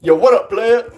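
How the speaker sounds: put-on African American accent, high-pitched. Shown as a demonstration. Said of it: "I can do African American accent".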